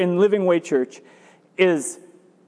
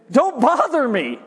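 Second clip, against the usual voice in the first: higher, irritated brush-off; annoyed refusal; 4 semitones higher than usual. Acted. Man in bed answering a friend at midnight, annoyed. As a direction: send the caller away, mildly exasperated.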